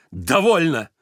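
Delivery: loud curt stop; curt cut-off. A narrator's reading. Varvara cuts Stepan off curtly. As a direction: cut him off sharply. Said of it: "отрезала она".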